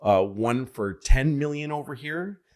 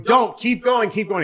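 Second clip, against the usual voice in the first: high, louder pleading chant; crowd begging; 10 semitones higher, 5 dB louder than usual. Retold or imitated. Audience begging the contestant to keep going, high and loud. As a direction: urge him on like the whole room.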